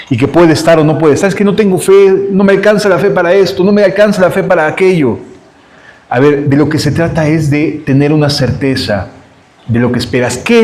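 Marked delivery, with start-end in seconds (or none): 1.3-5.2 quick run of excuses; doubting believer. Acted. Preacher mimicking believers who doubt their faith, quick excuses. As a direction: rattle off the excuses, one after another. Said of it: "A veces pensamos que nuestra fe es pequeñita".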